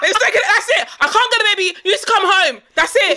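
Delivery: high, laughing mock panic; panicked mom on the phone. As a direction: squeal it out like a frantic mother calling her husband. Friend acts out panicked phone call.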